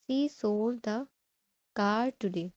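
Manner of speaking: slow, with "car" set apart after a pause; pause, then lean on "car"; stress on CAR. Shown as a demonstration. Teacher shows focus on what is sold, stress on "car". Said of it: "वो क्या बेच रही है".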